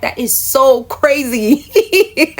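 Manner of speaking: slow, laughing disbelief. Real, not acted. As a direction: laugh through the words. Laughing at her own memory.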